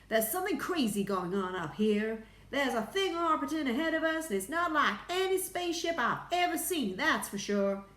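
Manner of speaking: high, loud, excited astronaut voice; alarmed report. A narrator's reading. Astronaut telling Houston of a strange craft, excited. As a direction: report it in high-pitched amazement.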